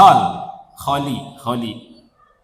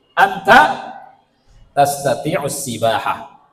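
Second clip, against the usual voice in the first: slow Arabic drill; 6 semitones lower, slower than usual. Shown as a demonstration. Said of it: "Kamu satu orang laki-laki".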